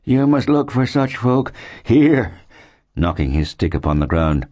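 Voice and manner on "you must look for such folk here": slow, high-pitched character voice; crying settler. A narrator's reading. Settler corrects Mark about the townsfolk, slow high cry. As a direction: cry it slowly, as a grim warning. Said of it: "cried the man".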